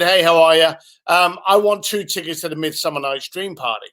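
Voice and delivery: imitating an uninterested caller, very even; bland monotone. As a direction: ask for tickets with no excitement. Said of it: "So very bland, very monotone".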